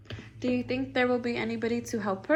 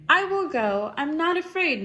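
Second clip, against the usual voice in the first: brave Mama Birdie; 4 semitones higher, 4 dB louder than usual. Acted. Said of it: "Mama Birdie said".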